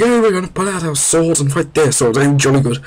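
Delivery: hammed-up eager swordsman; mock brave soldier. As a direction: play a gung-ho old-fashioned soldier. Mocking brave soldiers' battle talk.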